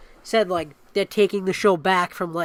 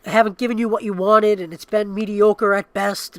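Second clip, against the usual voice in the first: slow, louder mock apology, raised pitch; hammed-up solemn executive; mock corporate apology; 4 semitones higher, 5 dB louder, slower than usual. To the fans, a mock-solemn apology. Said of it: "he was like".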